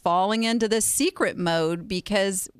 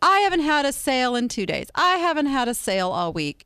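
whining; 5 semitones higher, faster than usual. Retold or imitated. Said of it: "I'm gonna call it whining".

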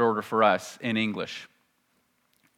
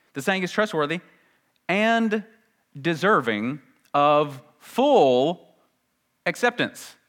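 higher-pitched reading, each part set apart by pauses; emphatic scripture reading; 5 semitones higher, slower than usual. Acted. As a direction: read it out slowly, weighing each word. Reads the verse again with emphasis.

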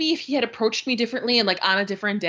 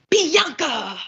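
higher, louder sudden name call; mock calling out; 5 semitones higher, 5 dB louder than usual. Man pops up at her seat, calling out abruptly. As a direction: imitate a pest hollering her name.

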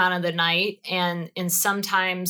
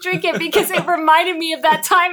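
stifled giggles; 9 semitones higher, 5 dB louder than usual. Real, not acted. Laughing about peach schnapps.

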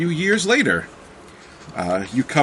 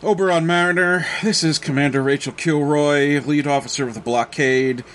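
stern commander; 3 semitones higher than usual. Acted. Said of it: "and you hear".

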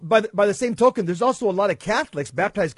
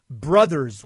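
"brothers" set apart, low and firmly weighted; stress on brothers; 4 semitones lower, 4 dB louder than usual. Real, not acted. Host telling author whom he calls Protestant kin, stressing "brothers". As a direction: lean on the word "brothers" in a lower pitch. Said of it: "I emphasize the word brothers".

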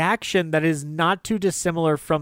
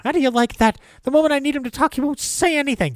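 much higher, louder fed-up complaint; 11 semitones higher, 4 dB louder, faster than usual. Retold or imitated. Lou complaining the dog won't talk now, high and fed up. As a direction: throw up your hands in disgust.

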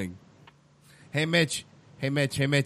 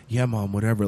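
put-on low, sulky kid to mom; Iron Fist; 6 semitones lower than usual. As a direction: grumble it low like a denied child. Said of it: "like he's talking to his mom".

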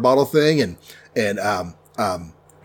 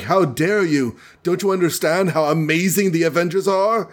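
higher, mildly hammed-up outrage; mock indignation; 5 semitones higher than usual. Thor scolds hesitant Spider-Man, mock indignation. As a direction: play at being affronted.

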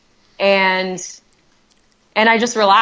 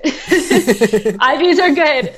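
laughing; 6 semitones higher, much slower than usual. Real, not acted. Laughing at herself after NICU.

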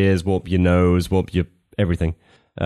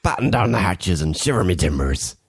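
put-on old sailor; 4 semitones lower than usual. Pirate voice.

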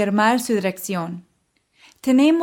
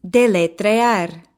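slow model pronunciation; 2 semitones lower, 4 dB louder, much slower than usual. Shown as a demonstration. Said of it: "let's review the key vocabulary".

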